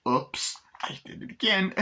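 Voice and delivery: high cackly mock voice; imitating gloating Chucky. Chucky after killing a pop singer, cackling gloat. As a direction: gloat through a put-on giggle.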